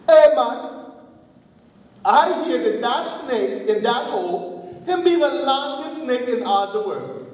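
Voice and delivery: mock amazement for an eavesdropper to hear; staged boasting. Anansi stages a conversation for snake.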